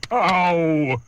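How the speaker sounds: loud, sudden yelp; pained shout. Acted. Trunky bitten on the leg, loud pained yelp. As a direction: yelp from a bite.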